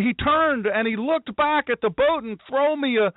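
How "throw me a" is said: mock panicked plea. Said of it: "doesn't say he did".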